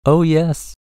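high little character voice; piping voice. A narrator's reading. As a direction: pipe up as a tiny creature. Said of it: "piped the voice".

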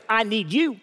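deep in the eye. Shown as a demonstration. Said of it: "Look 'em deep in the eye and say".

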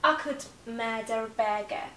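"Akut med er bege" slow, R linked; linking R. Shown as a demonstration. Final model for learners, slow linked R. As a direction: sound the R in "murder a" despite British rule.

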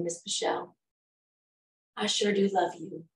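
softly voiced affectionate little girl; a gentle, hushed confession of love; tender child. Little girl leaning on her helper's shoulder, soft and tender.

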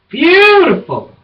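slow, high, drawn-out gasp of admiration; swooning delight. Real, not acted. Showing viewers her new coat, slow swooning high delight. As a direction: sigh it out like you're in love.

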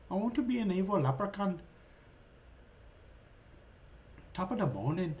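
quick, lightly put-on evil leprechaun. Gamer quoting the Leprechaun movie villain, lightly put-on evil leprechaun. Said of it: "from the Leprechaun movie".

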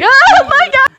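high yelled oh my god; mock scream. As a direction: scream it out in panic. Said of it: "It sounds so funny when you scream".

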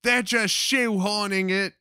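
mock the fans who whine about it; sneering parody of a whiny gamer. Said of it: "Everyone's like".

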